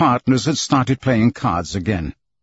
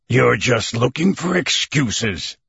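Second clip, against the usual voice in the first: scornful exclaim; slower than usual. A narrator's reading. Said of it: "exclaimed Stamp W. Proctor".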